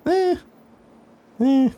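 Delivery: two short, squeaky "eh" noises; high-pitched "eh". Acted. Driver hesitating over moving the broken car, high "eh". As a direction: toss out two high little ehs.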